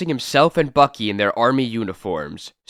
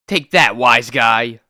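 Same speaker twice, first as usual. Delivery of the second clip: taunting shout; 5 dB louder, slower than usual. Acted. Fistfight, hero taunts thug.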